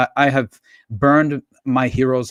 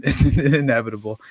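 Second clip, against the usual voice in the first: laughing. Real, not acted. Laughs mid-word.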